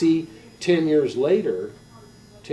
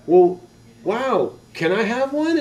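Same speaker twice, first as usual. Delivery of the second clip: put-on high, excited child's plea; high-pitched wide-eyed begging; eager little kid; 9 semitones higher, 7 dB louder than usual. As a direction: ask mom like an awestruck boy. Child begging mom in story.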